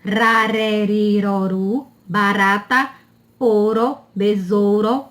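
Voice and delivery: tapped R in RA, RÉ, RI, RO, RU and "barata"; lightly flick each R, as in "ouro"; weak R. Shown as a demonstration. Teacher reviewing the R between vowels, weak tapped sound. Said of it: "Tem o som fraco do R".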